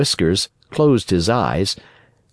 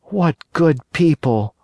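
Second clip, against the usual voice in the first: put-on high boyish puppet voice, much higher; Pinocchio voice; 9 semitones higher than usual. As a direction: play the wooden boy, frightened and eager. Pinocchio thinks.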